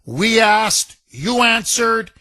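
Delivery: drawn-out, emphatic radio intro; radio segment announcer. Acted. Host introduces listeners' Monday talkback messages, showy announcer delivery. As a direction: hype the segment with spaced-out phrases.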